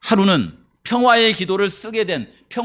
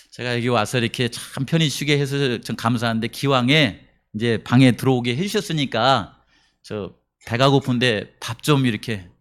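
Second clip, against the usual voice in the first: pleading for food; 5 semitones lower than usual. Retold or imitated. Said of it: "이렇게 말하는 거예요".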